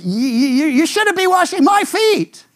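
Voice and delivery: stammering protest. Retold or imitated. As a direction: sputter it out, then blurt the rest. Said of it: "Peter says".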